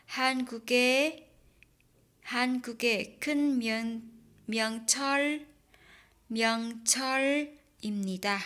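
word by word, slow and separate; 한국의 큰 명절입니다 read in separate chunks; slow broken reading. Shown as a demonstration. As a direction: read it haltingly, syllable by syllable. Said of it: "Đọc nối đó".

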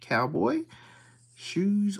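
Cowboy, whispered under the breath. Real, not acted. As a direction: breathe it out hushed as he checks. Hushed check of the card.

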